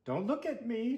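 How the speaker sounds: chewing while talking; mouth full. Acted. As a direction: talk through a mouthful. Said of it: "chewed Stuart".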